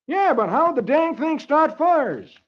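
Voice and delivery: high, slow puzzled voice; high slow question. Acted. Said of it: "Brad asks".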